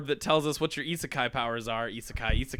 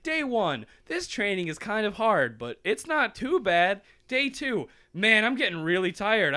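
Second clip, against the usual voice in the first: higher-pitched earnest journal entry; lightly acted diary voice; 5 semitones higher than usual. Trainee writing about his training, lightly acted.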